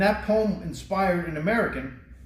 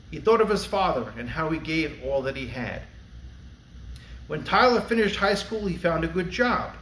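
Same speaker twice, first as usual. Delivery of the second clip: poem recitation. Acted. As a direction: recite it like a tribute to the fallen.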